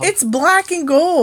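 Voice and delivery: high, loud teasing. Real, not acted. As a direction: needle him about the car colours. Teasing about Steeler car.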